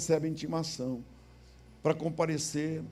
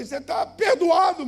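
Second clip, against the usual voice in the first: louder and higher, calling down; shouted reply; 13 semitones higher, 9 dB louder than usual. Retold or imitated. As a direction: shout the answer out the window. Pastor answering from window.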